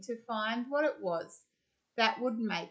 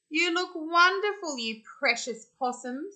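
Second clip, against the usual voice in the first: delighted praise; 7 semitones higher, 4 dB louder than usual. Acted. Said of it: "said Grandma Poss".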